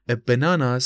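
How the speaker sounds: British banana with a long open 'ah' in the middle; British pronunciation. Shown as a demonstration. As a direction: say banana the British way, stressed 'nah'. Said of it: "banana تلفظ بریتیششه". (تلفظ بریتیش banana با «آ»ی کشیده)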